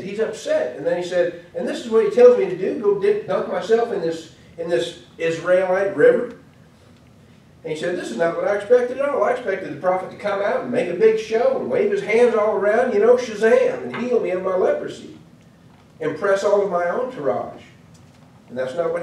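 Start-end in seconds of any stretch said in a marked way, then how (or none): 1.5-6.4 a proud commander scoffing at the order; indignant general. Acted. Naaman scoffs at dunking in Israel's river, indignant and loud. 8.0-17.6 higher, louder wounded pride ranting; offended outburst. Acted. Naaman rants about the prophet's missing show, loud and indignant.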